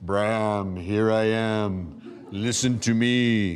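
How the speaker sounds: loud, thundering, booming voice, "am" drawn out. Telling of going within for answers, the speaker imagines a voice: loud, booming, thundering voice. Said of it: "loud, booming, thundering voice".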